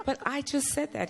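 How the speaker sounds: high-pitched imitation of an overlooked woman; indignant acted objection; mock protest. Woman protests being ignored.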